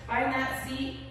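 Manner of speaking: upbeat fitness coach cueing reps; aerobics instructor. Acted. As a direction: pump up the class, count it.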